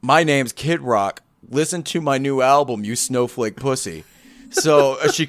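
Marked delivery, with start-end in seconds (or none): 0.0-4.0 mock rock singer. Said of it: "instead of being like".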